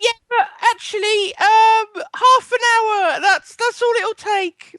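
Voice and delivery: high hammed-up mother voice; fake mum. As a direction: keep the falsetto mum going. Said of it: "pretend to be your mother".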